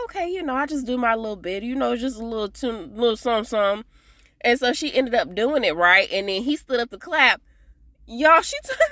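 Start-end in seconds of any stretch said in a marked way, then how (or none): 0.1-3.9 lightly voiced Loretta, high and coy; mock Loretta voice. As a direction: imitate her bashful little bit. Loretta quoted shyly playing tune.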